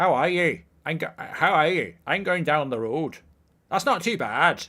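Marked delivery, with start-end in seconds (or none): 0.0-3.2 amateur put-on Northern Irish accent. After saying he can't do northern irish, trying an attempted northern irish accent. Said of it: "I can't do Northern Irish".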